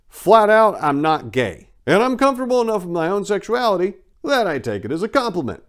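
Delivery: loud, high, forceful denial; emphatic insistence. Real, not acted. Narrator insisting to listeners he is not gay, loud and emphatic. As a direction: hammer it home firmly.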